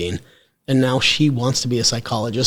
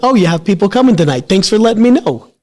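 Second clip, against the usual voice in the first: sarcastic wife; 8 semitones higher, 7 dB louder than usual. Retold or imitated. Wife quoted, sarcastic about surprise guests.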